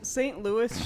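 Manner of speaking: "Saint Louis" ending in "Loo-ee"; French-style pronunciation. Shown as a demonstration. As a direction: silent s at the end of "Saint Louis". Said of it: "should be pronounced Saint Louis".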